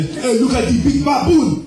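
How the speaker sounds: mock the kid like dad did. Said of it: "my dad would say".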